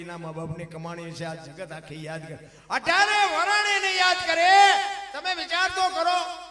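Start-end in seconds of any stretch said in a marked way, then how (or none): 2.7-6.4 high, loud, slow preaching cry; fervent preaching. Acted. Preacher rousing the audience, loud fervent cry. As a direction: call out to the whole crowd.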